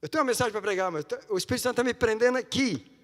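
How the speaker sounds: loud, high, fervent preaching cry; rising fervent sermon shout; preaching at full force. Real, not acted. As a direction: preach it out at the top of your voice. Preacher building to a climax.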